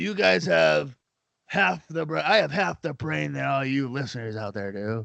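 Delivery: coarse, rough, creaky tough-guy delivery. Imagining a wrestler cutting a promo for the show: Sid Vicious impression. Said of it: "No, Sid, God damn it".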